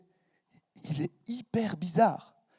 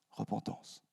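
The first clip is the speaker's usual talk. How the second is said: breathy whisper, barely voiced; 5 semitones lower, 13 dB quieter, slower than usual. Preacher whispering the key word to his congregation. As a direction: let the word hang in a hush.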